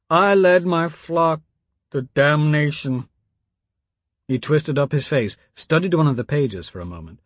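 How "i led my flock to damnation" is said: slow, raised, grieving confession; a broken priest blurting his guilt; anguished outcry. A narrator's reading. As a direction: cry it out as guilt breaks through.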